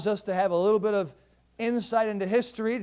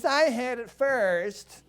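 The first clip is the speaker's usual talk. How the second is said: spoiled prince; 4 semitones higher, much slower than usual. Acted. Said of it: "spoiled prince".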